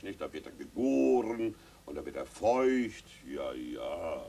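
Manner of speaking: low, slow, hesitant father; father stalling in a low slow voice; fumbling father. Acted. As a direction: stall while inventing an answer.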